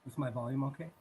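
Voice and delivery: quiet, distant off-mic voice; far from mic. Real, not acted. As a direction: lean away from the mic. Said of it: "It's pretty quiet".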